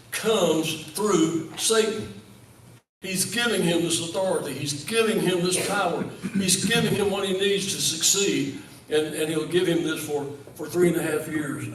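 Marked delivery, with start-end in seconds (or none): 3.0-8.6 giving leaned on in each line; repeated emphasis on giving; stress on giving. Real, not acted. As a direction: hammer the word giving every time. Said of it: "I emphasize that word give or given".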